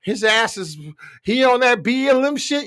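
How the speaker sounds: high mock outrage from a white fan; angry white fan. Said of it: "A lot of white Americans was pissed off, like".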